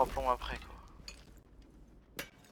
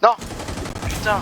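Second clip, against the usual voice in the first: frustrated shout; 10 semitones higher, 5 dB louder than usual. Real, not acted. Game disaster, sudden outburst.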